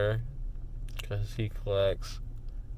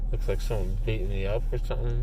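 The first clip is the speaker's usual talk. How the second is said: towels in mouth; faster than usual. Real, not acted. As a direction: mouth stuffed, words muffled. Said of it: "'cause I got towels in my mouth".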